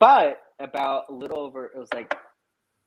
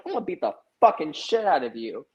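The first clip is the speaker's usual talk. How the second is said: higher-pitched mock threat from mom; imitated angry threat; 5 semitones higher than usual. Five-foot mom threatens the neighbor, imitated anger. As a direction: play a tiny mom threatening a fight.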